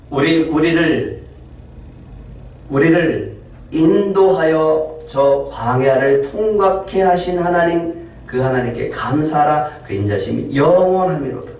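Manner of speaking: slow, deliberate worshipful recitation; slow psalm recitation. Acted. Pastor reciting the psalm slowly to the congregation. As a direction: draw out each phrase like a prayer.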